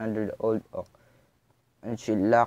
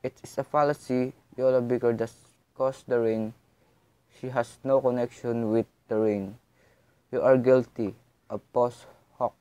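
sharply. Acted. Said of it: "I said sharply".

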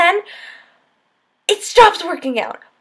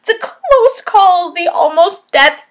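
louder, higher and slow, savouring each phrase; excited; 4 semitones higher, 4 dB louder, slower than usual. Real, not acted. Reviewer thrilled by the book's close calls, drawn out and loud. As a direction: relish every near miss. Gushing about the book's ending.

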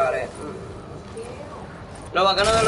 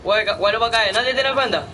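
panicked; 4 semitones higher than usual. Real, not acted. Panicked calling for bandages.

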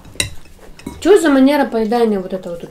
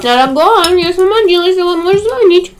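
coy, higher lover's call; mistress voice; 7 semitones higher, 4 dB louder than usual. Pretend. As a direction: play a sweet-talking mistress on the phone. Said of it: "Это типа любовница". (голос любовницы, нежный и повыше)

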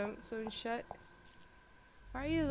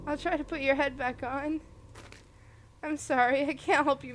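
flustered; 2 semitones higher, 6 dB louder than usual. Real, not acted. Player fails to help the headless deer, flustered and loud. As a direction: blurt it out in distress.

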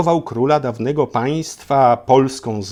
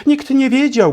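mock amazement; 13 semitones higher, 6 dB louder than usual. Exaggerated storyteller wonder.

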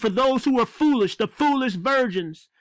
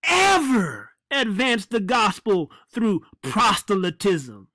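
mocking quote; slower than usual. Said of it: "He says".

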